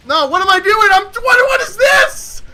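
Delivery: rising, baffled outburst; exasperated disbelief. Real, not acted. Baffled at own play.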